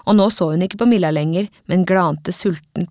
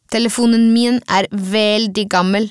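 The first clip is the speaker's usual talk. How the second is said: veldig pressed a little harder than the rest; stress on veldig. A narrator's reading. Alice to Milla about her phone, stress on veldig. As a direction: lean on the word veldig. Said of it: "med trykk på veldig".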